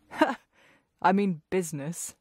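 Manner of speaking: a light chuckle to himself; amused at his own pun; chuckling. Acted. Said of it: "he chuckled to himself".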